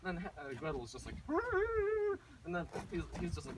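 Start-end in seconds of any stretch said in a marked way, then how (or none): 1.2-2.4 high, held whimpering wail; mock crying wail. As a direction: wail like an upset little girl. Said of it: "like, crying again".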